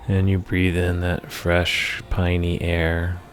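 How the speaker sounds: measured meditation voice with long pauses between phrases; guided meditation. Acted. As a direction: lead the listener through the imagery phrase by phrase, unhurried. Leads a guided meditation for anger.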